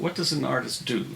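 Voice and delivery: the word do pressed a little harder at the end; stress on do. Real, not acted. Interviewer asking the painter about art, stressing do. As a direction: lean on do in what does an artist do. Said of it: "and I emphasize the word do".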